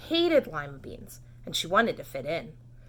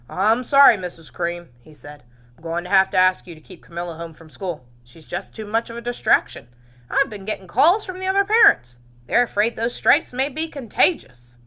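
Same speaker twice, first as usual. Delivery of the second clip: principal's call; 6 dB louder than usual. Acted. Principal phoning the mother.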